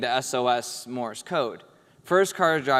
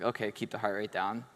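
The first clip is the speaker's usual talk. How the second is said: keeping calm; 3 semitones lower, 6 dB quieter than usual. Retold or imitated. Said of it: "Gotta keep her calm so then she keeps me calm".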